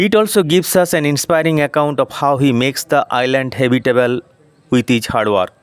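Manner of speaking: slow, careful read-aloud of English; deliberate classroom reading pace; slow textbook reading. Shown as a demonstration. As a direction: read each word out slowly for the class. Teacher reads English text aloud.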